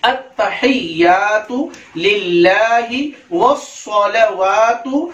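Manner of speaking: deliberate teacher's model reading; careful recitation. Shown as a demonstration. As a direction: recite evenly, drawing out the long vowels. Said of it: "फिर से एक मरतबा मैं पढ़ता हूँ".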